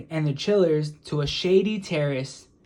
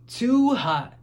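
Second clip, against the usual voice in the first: put-on higher, whiny kid voice; Tom's complaint; 7 semitones higher, 3 dB louder than usual. A narrator's reading. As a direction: groan it like a boy in the heat. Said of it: "said Tom".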